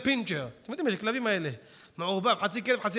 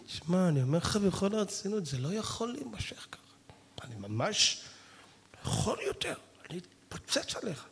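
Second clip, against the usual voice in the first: whispered threat that never ignites; failed angry threat; 5 dB quieter than usual. Acted. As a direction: try to get angry but only whisper. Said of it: "אתה רואה, זה לא". (איום בלחש שלא מצליח להתלקח)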